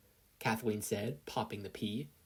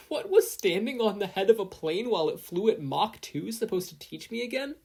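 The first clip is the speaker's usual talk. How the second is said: high, strained queasy grumble; barely holding down lunch; dizzy complaint; 9 semitones higher, 4 dB louder than usual. Acted. Queasy after jet ride.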